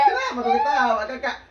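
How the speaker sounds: loud laughing question. Real, not acted. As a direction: shout it, laughing. Bertanya sambil tertawa. (berteriak sambil tertawa)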